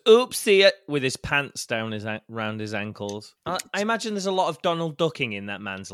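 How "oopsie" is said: surprised oopsie. Retold or imitated. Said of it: "walks into a room and goes".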